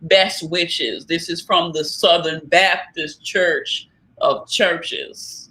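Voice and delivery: syrupy Southern church lady on a prank call; drawling Southern prank-caller voice. Retold or imitated. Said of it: "Southern black lady voice".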